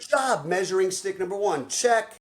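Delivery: ticking the box with a big lift; hyped praise. Retold or imitated. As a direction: cheer him on like a coach. Coach praising client.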